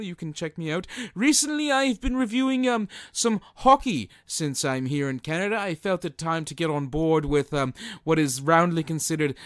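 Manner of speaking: fussy gentleman persona, lightly voiced; a hint of a self-important old gentleman; Montrose character. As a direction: plug his channel in a pompous manner.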